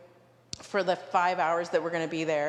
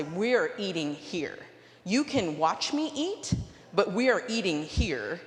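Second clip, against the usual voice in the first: firm stand. Retold or imitated. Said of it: "I'm gonna make a stand".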